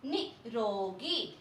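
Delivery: निरोगी stretched out syllable by syllable; teacher models निरोगी very slowly; very slow pronunciation. Shown as a demonstration. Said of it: "next है".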